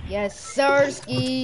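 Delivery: drawn-out slow cheer; hyped gamer bro. Real, not acted. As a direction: stretch it out in victory. Celebrating kill.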